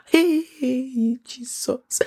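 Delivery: breathy unvoiced Jesus; whispered exasperation. Real, not acted. Hearing husband went to eat amala, whispered exasperation. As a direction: whisper it in disbelief.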